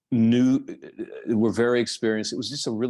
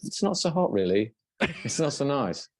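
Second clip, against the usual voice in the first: mock English fan; 5 semitones higher than usual. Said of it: "They're like".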